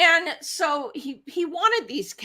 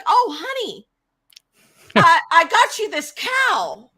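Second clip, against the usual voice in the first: sheepish sweet-talk; 5 semitones higher, 4 dB louder than usual. Retold or imitated. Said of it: "he's like".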